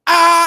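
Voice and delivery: high, loud mock yell from up top; imitated shallow yell. Showing how his yelling fell short, imitated shallow yell. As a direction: yell it without any depth behind it. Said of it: "it came very from, like, here".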